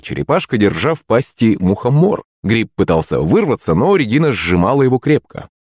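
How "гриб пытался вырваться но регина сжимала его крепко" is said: plain reading voice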